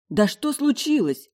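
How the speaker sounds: high, loud, drawn-out indignant question. A narrator's reading. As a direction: demand an answer in indignation. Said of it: "возмутилась я". (возмущённо, высоким голосом)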